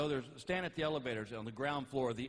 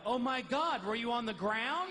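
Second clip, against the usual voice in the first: higher, louder worried wife; alarmed wife; 8 semitones higher, 4 dB louder than usual. Retold or imitated. Wife to husband on phone, alarmed question.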